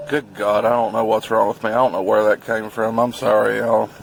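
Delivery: gushing sorry to the viewers, words tumbling; excited. Real, not acted. Vlogger apologizing to viewers over his burger, fast and excited. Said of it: "I'm just excited about this burger".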